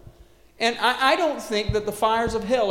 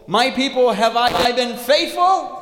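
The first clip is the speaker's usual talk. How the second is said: loud, slow voice of God asking his people; solemn, booming God voice; God speaking; 4 semitones higher, 8 dB louder, slower than usual. Acted. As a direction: call out to the people like God on the throne. Voicing God on his throne.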